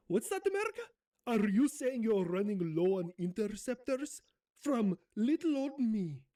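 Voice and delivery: 끝부분을 능청스럽게 높여 말하는 Zelensky 억양 흉내; 순진한 척 되묻는 Zelensky 억양; Zelensky accent. Acted. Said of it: "do my best Zelensky accent".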